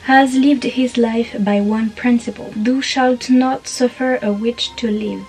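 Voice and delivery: emphatic trailer-style narration in French-accented English; dramatic English reading. Shown as a demonstration. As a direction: narrate the blurb with weight on each phrase. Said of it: "mon super accent anglais". (lecture dramatique en anglais, accent français)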